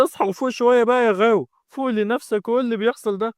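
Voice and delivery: high-pitched worried plea; pleading. A narrator's reading. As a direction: beg a loved one to snap out of it. Sister begs possessed brother to wake.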